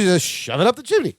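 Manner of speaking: lightly imitated sitcom cousin with an odd lilt; Balky. Retelling a favorite exchange from the show, lightly imitated cousin. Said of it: "'cause Balky goes".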